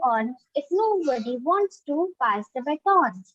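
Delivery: measured, singsong recital with rise and fall; poem recitation. Shown as a demonstration. Student reciting a poem for an online class, singsong recitation. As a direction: recite it line by line, pausing between phrases. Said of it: "you have to recite a poem".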